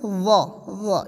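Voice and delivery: وا with a buzzed th between the teeth; tongue out for وا, kept brief; short buzzing وا; tongue out first. Shown as a demonstration. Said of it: "سب سے پہلے زبان نکالے".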